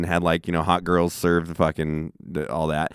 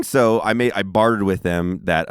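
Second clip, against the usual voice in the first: normal talking voice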